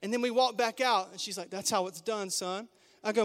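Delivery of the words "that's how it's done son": softer, satisfied mom to her son; quietly pleased with herself; smug aside. Retold or imitated. Mom after the fight.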